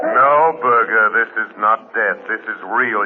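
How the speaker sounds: loud, commanding interruption; firm call. Acted. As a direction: snap him back to reality. Shadow cuts off dying man's despair.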